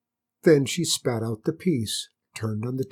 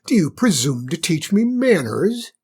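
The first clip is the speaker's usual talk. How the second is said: higher, louder affronted challenge; how dare you teach me; indignant; 5 semitones higher, 6 dB louder than usual. Acted. Queen affronted by the hare's lesson, indignant.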